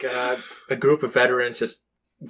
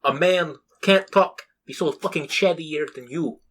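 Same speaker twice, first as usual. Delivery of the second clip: yelling Russian; 4 semitones higher than usual. Retold or imitated. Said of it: "the Russian one yelling at him".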